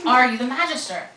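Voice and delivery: vehement repeat. Acted. Tessa demanding an answer from the boy, vehement. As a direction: press him hard for the answer. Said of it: "surprised by her vehemence".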